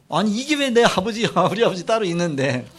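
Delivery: annoyed retort, acted out; retold irritation. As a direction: protest crossly, replaying your younger self. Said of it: "얼마나 신경질 나고".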